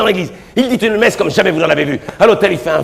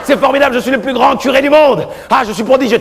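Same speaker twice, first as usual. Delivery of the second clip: put-on gloating young priest; 7 semitones higher than usual. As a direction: crow about the triumph. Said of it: "il dit".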